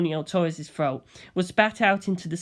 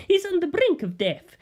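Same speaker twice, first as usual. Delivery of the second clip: higher, tense report; urgent gangster; 12 semitones higher than usual. Acted. Bucciolati voiced.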